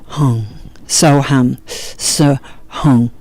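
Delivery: slow mantra syllables, each on its own breath. Shown as a demonstration. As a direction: breathe the mantra out, spaced and unhurried. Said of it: "do it with the breath".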